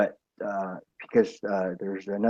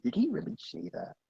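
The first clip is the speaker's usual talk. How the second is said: high, quiet, puzzled mock question; doubtful question; 10 semitones higher, 8 dB quieter than usual. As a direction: wonder aloud in disbelief. Mocking people's doubtful Facebook quotes.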